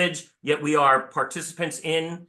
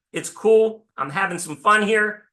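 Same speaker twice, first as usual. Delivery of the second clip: a higher, louder, breezy Adam; casual Adam; 7 semitones higher, 4 dB louder than usual. Retold or imitated. Adam telling God about the animals, high and casual. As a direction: voice Adam as a laid-back dude. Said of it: "And Adam goes".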